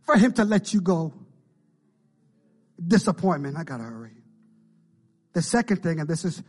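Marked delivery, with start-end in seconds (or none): 0.0-1.1 high-pitched, loud acted plea; imitated crying plea. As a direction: plead as the distressed girl, drawing out the end. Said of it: "she's in a room and she's crying".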